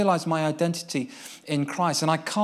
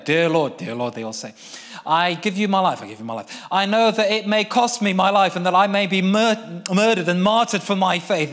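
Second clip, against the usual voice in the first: louder earnest prayer; fervent prayer; 4 semitones higher, 7 dB louder than usual. Retold or imitated. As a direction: lead them through the vow with force. Leading the boys' prayer.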